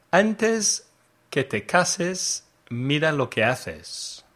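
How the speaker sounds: Spanish with a bad accent. Real, not acted. Teacher quizzing learners on idiom translations, bad Spanish accent. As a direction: read the Spanish in a non-native accent. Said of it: "in my bad Spanish accent".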